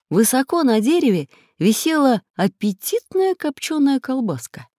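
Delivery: plain reading voice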